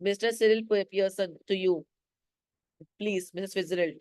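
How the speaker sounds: a sulky, fading reply. Retold or imitated. Cyril sulkily corrects the aunt, a mild sulk. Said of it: "Cyril काफी सल्की होके बोल रहा है".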